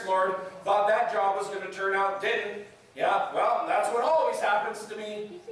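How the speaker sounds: mildly bitter mock resignation; sarcastic grumbling. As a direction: grumble at God with understated sarcasm. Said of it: "It's just sarcasm and anger".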